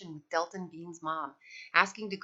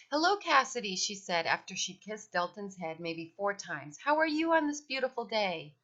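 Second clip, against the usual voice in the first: gushing mom. Acted. Mother's gushing greeting.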